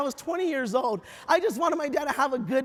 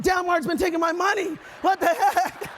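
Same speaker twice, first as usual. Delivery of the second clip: higher-pitched comic indignation; mock outrage; 4 semitones higher than usual. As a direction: play someone who just found out they were conned. Acting discovery he was duped.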